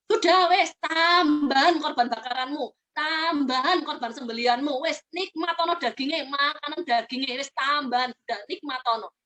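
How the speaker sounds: a hint of fed-up God, slow in places; mock exasperated God. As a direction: voice God brushing off their offerings. Preacher voices God fed up. (suara Tuhan yang jengkel, agak pelan)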